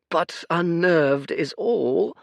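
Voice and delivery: put-on high, tired old man voice; a sorrowful old oracle; weary old seer. Fate's voice.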